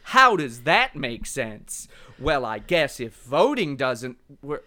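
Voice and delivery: lightly voiced smug pundit, slow; mock outrage, slowed right down; slow Tucker Carlson voice. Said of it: "He talks kinda like this".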